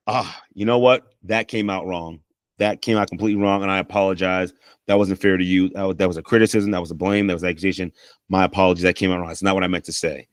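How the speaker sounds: a lightly voiced sincere apology. Shown as a demonstration. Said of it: "If you start off, let's say you got the whole you statement out".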